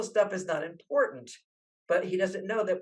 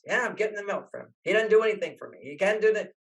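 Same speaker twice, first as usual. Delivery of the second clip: fast, higher mock-resentful grumble; higher, quick resentful mutter; resentful wife; 4 semitones higher, 3 dB louder, faster than usual. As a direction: voice the wife's bitter complaining. Wife voiced resentfully in story.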